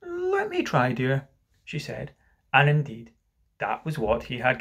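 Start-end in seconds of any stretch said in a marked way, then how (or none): 0.0-1.3 lightly voiced wife, high start settling down; placid. Wife offers to tie husband's tie, mildly placid. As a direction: offer help gently, unruffled. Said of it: "Missus Darling was placid".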